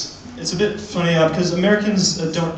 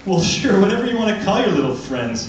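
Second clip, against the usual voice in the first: patronising adult; 4 semitones higher than usual. Retold or imitated. Grown-up patronising child.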